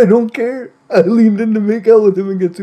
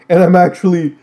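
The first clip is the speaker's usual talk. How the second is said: dramatic reveal; 7 semitones higher, 5 dB louder than usual. Acted.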